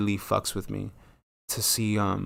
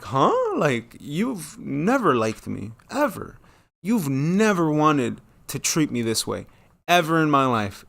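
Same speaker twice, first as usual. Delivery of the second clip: louder, squeaky rise on ever; shocked retort; 4 semitones higher, 3 dB louder than usual. Retold or imitated. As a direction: confront her with mock shock. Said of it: "I was in shock".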